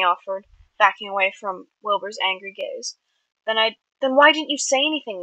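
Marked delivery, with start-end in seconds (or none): 3.5-5.2 higher, pressing question; demanding. A narrator's reading. Angry brother questioning Tommy, demanding. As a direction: press him angrily for an answer. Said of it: "Wilbur demanded".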